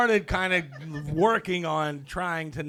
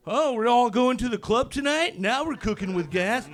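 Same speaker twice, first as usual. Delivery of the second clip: mock enthusiasm; 7 semitones higher than usual. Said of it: "But I'm not, like, going".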